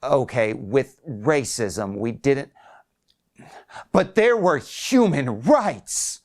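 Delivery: put-on old man pushing back, rising high on the end; a hint of an indignant patient, building; lightly voiced old man, rising in protest; defensive old man. Wiley arguing back.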